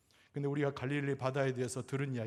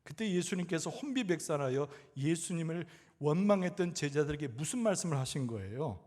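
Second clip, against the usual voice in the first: normal talking voice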